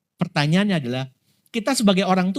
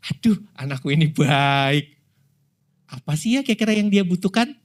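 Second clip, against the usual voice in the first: a hint of fond God; 3 semitones lower than usual. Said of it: "Kira-kira Tuhannya gimana".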